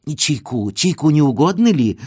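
ordinary delivery, nothing marked

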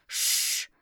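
sharp unvoiced shh; shushing hiss. The familiar hisses to shut the girl up. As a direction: hiss to silence them. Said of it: "прошипел чудик".

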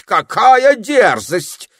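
high, slow, loud indignant cry; furious wizard. A narrator's reading. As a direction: explode with outrage. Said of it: "побагровело от гнева".

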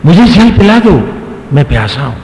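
high-pitched acted cry for water; desperate plea. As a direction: call out urgently as if parched. प्यासा उतंग फिर पुकारता है. (प्यास में ऊँची पुकार)

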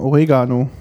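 "Oregano" with an e, as Germans commonly mispronounce it; common German mispronunciation. Shown as a demonstration. Guest asks how Germans say it, "Oregano" with an e. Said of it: "was Deutsche meistens falsch aussprechen".

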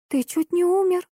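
high, tearful cry. Acted. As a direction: wail it through tears. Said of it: "всхлипнула Эурика". (сквозь слёзы)

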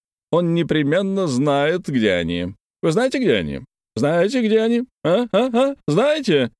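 high, rising pestering questions; pushy high interrogation of the guest; badgering. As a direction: hound him for an answer. Kolomeitsev badgering Paklin.

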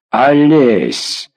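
drawn-out imploring call; mild narrated entreaty; pleading. A narrator's reading. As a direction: beg him by name, almost helplessly. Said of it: "почти молил Дуботовк".

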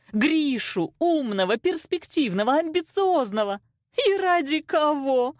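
indignation climbing high toward tears; tearful reproach. A narrator's reading. Mother shames daughter over rejected suitor, tearful. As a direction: build from scolding to a high, tearful complaint. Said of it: "закончила мама уже со слезами в голосе".

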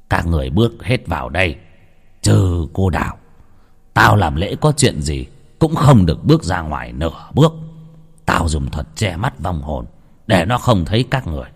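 a sorcerer commanding the crowd gravely; old shaman. Acted. Shaman ordering villagers into the circle, low stern command.

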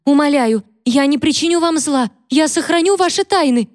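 very high, pleading cry; desperate begging. Acted. Catherine begs Mary in a high, desperate voice. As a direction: beg for mercy in terror. Maid begs her mistress.

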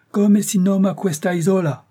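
put-on the angry uncle shakes the boy and demands; angry uncle shouting in Italian; angry Italian question. A narrator's reading. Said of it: "que la colère commençait à gagner".

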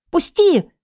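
high sharp cry; shout. Acted. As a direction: cry out to break free. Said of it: "закричала я". (героиня кричит, вырываясь)

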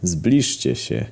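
put-on slow, hoarse old man's summons; lightly voiced hoarse old man. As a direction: rasp it out slowly. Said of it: "odrzekł jegomość zachrypniętym głosem".

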